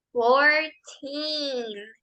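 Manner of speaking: put-on Fourteen with the teen drawn out; long teen. Shown as a demonstration. Teacher models the word for the students, teen held long. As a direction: stretch the ee in Fourteen. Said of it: "Recordemos decirlo lento porque hay que alargar ese teen".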